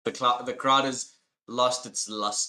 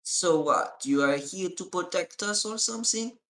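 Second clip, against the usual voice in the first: goblin voice; 9 semitones higher than usual. Acted. Goblin Crin questioning party.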